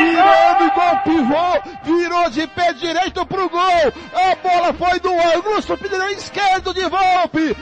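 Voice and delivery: explosive goal commentary. Real, not acted.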